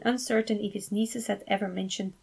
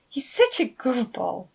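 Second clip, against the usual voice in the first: mild squeal; 4 semitones higher than usual. Acted. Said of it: "Fabio squealed".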